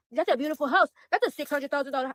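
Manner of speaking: imitating a repeated sales line, punched up; mimicking their refrain. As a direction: parrot their stock line with exasperation. Mimics what they keep saying.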